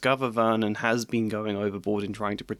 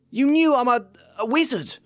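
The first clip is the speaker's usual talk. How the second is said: higher and louder, stunned; an indignant boy's outburst; shocked accusation; 13 semitones higher, 5 dB louder than usual. Acted. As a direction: confront them with what they hid. Harry accuses his aunt and uncle.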